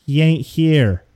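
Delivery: slow, drawn-out and close; sultry. Acted. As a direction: lean in and linger on each word. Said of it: "stares deeply into your eyes and says".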